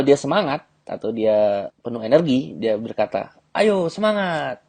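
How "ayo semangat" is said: high, slow, bouncy cheer; mock cheerful girl. Shown as a demonstration. Girl full of energy.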